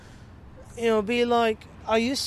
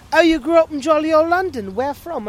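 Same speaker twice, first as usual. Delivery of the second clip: loud, higher-pitched retold exclamation; surprised waitress; 5 semitones higher, 11 dB louder than usual. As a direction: quote the waitress loudly, mock astonished. Voices the surprised waitress's question.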